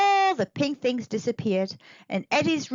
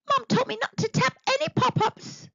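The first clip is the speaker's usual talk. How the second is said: worried; 13 semitones higher than usual. Acted. Eddie panicking, thinking.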